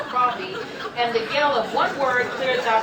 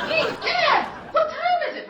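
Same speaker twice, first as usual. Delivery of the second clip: high, louder call across; 4 dB louder than usual. Acted. Betty calling out across the room. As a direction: call out to be heard.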